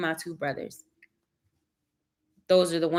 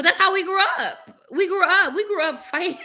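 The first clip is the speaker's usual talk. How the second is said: excited outburst; 11 semitones higher, 4 dB louder than usual. Real, not acted. Laughing about family fights.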